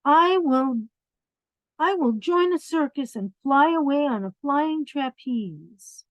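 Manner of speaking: put-on a child bunny boasting to his mother; little bunny voice. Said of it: "said the little bunny".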